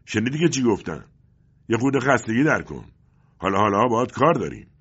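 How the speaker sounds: loud, high-pitched taunting; mocking tone. A narrator's reading. Agent taunts beaten father on the railing, mocking. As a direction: jeer at a helpless captive.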